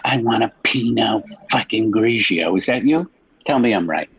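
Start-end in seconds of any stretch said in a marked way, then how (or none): 0.0-2.5 higher-pitched mocking quote of the other guy; mock wine orderer. Host mocking a caller's fussy wine order, higher-pitched mock quote. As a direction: imitate him changing his mind, higher-pitched. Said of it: "And then you're like".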